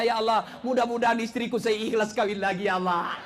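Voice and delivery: hammed-up husband's prayer with a laugh; mock husband prayer. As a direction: whine to God about your wife. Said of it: "husband also prays".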